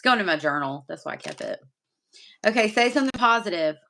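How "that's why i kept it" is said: whispered aside; whispering. Real, not acted. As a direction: drop to a secret whisper. Hiding card from camera.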